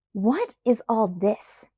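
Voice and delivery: slow, flustered splutter; stunned and sputtering. Acted. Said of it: "I spluttered".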